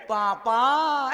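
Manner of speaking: put-on long, drawn-out child's call of पापा, very slow; child calling papa. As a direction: stretch पापा like a kid calling out. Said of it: "प्यार से कहा करेंगे".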